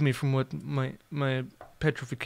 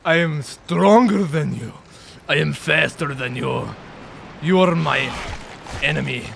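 gloating villain; 3 dB louder than usual. Pretend. Villain boast at the enemy.

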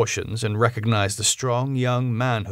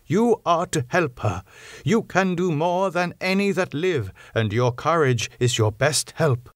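put-on older professor's voice, raised and pressing; Van Helsing, urgent; 7 semitones higher than usual. Professor tells doctor the patient needs blood, pressing old professor voice. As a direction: alarm held under control, pitched up.

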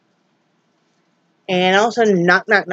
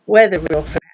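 whisper; 3 semitones lower than usual. Real, not acted. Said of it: "whispering aside".

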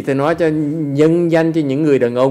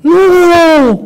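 loud high shouted no; emphatic no; 10 dB louder than usual. Real, not acted. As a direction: reject it with a sharp cry. Rejecting a suggested answer.

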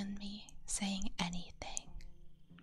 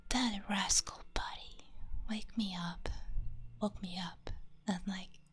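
ASMR whisper. Real, not acted. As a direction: whisper gently as if not to wake anyone.

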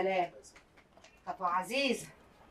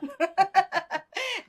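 shy laugh; 5 semitones higher than usual. Acted. Laughs at being teased.

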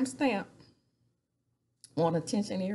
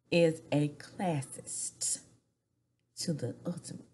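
hushed, confiding gossip; gossipy whisper; 3 semitones lower than usual. Real, not acted. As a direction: lean in and whisper the dirt. Dishing gossip about Lisa.

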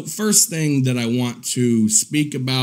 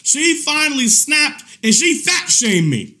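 high, laughing exclamation; laughing disbelief; 10 semitones higher than usual. Real, not acted. Telling viewers she fat shamed him, laughing incredulously. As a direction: burst out in amused outrage.

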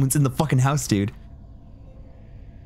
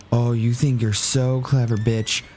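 ordinary talk

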